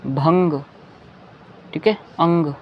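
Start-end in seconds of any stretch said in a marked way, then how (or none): 0.1-0.6 "भंग" with a clear ng; "भंग" sounded out as bhang. Shown as a demonstration. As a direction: hold the ng in "भंग". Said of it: "ये सभी अंग की आवाज़ है".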